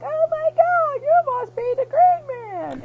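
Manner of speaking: Mister Blue meeting the Green Man, awed; high excited gasp. Acted. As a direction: gush like a starstruck scientist.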